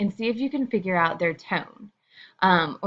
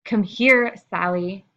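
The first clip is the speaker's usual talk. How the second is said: sharp call; slower than usual. Shown as a demonstration. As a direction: call Sally over firmly. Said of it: "I said the same thing in a ton of different ways".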